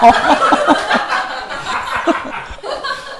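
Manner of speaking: high, breathy burst of laughter; laughing. Real, not acted. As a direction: crack up at your own impression. Laughs at own bus impression. (숨넘어가듯 터진 웃음)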